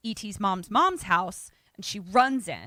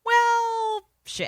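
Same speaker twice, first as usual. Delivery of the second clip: dismayed swearing; 6 dB louder than usual. Retold or imitated. Character voiced finding body.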